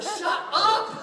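loud, high imitation of exasperated wife; mock scolding. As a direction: hush him in a comic high outburst. Wife scolds his loud whispering.

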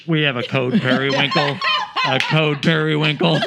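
slow, deliberate code call; mock store announcement. Clerk paging staff about lost child, mock announcement. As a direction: announce it evenly, like a store page.

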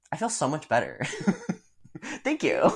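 retold relief breaking into high laughter; laughing relief. Worker back from a water break, laughing retold thanks. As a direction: giggle through a mock-grateful thank you, pitch jumping up. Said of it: "and I was like".

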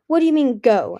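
loud, high alarmed cry; cried. A narrator's reading. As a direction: cry out in disbelief. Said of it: "Anemone cried".

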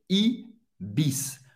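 "Ibis" as ee-BEESS, with a true hissed S; final S pronounced. Shown as a demonstration. Teacher modelling the French hotel brand, final S pronounced. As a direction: end "Ibis" on a clean S, never SH. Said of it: "O S no final vai ter um som do S mesmo".

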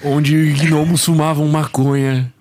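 epic fantasy narrator. Retold or imitated. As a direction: intone it like a fantasy prologue. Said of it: "melhor que eu já vi de redublagem".

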